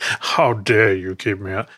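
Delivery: slow, drawn-out mock cowboy twang; weird cowboy voice. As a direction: play it like a movie cowboy, slowly. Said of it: "I'm doing that weird cowboy voice".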